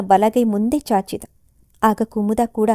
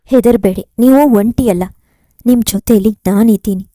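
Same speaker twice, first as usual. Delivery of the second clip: louder, fervent reassurance; firm comfort; 5 dB louder than usual. Acted. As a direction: promise him, don't be afraid. Kumuda comforts grieving Chandu. (ಜೋರಾದ ಧೈರ್ಯದ ಸಾಂತ್ವನ)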